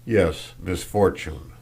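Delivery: "misfortune" said slowly and deliberately; slow, insistent weight on "misfortune"; stress on misfortune. A narrator's reading. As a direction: dwell on "misfortune", drawing it out. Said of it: "as if to say".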